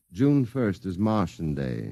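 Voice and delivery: reading aloud. Acted. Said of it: "The next ad will read".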